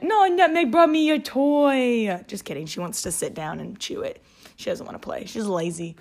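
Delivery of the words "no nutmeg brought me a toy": high, loud delighted gush; excited pet-owner squeal. Real, not acted. Owner told by Nutmeg's toy to play, excited high cooing. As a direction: gush over the dog in a high voice. Breaks off to exclaim over pet.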